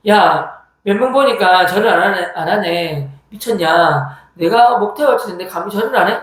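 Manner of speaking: mildly worked-up telling-off; mock threat with a little push; retold cursing threat. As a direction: act out a bully scolding the non-bowers. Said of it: "이러면서 막 욕을 한 거예요".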